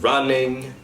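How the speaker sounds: "running" ending in n; "running" said runnin'; Cockney ing ending. Shown as a demonstration. Coach demos dropped g to cast. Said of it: "ing to n".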